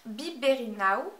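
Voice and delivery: shade name said slowly in a put-on English accent. Shown as a demonstration. Beauty vlogger reads the polish name to viewers in an exaggerated English accent. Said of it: "super accent anglais".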